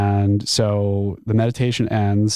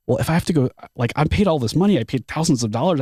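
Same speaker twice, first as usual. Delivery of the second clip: higher, fast, indignant complaining; indignant outrage; 5 semitones higher, much faster than usual. Retold or imitated. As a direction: protest like you were robbed. Indignant inner rant about money.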